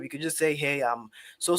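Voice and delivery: ordinary delivery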